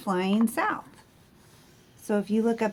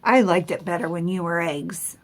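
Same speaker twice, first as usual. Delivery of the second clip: stern; 4 dB louder than usual. Acted. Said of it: "Bruce was very stern".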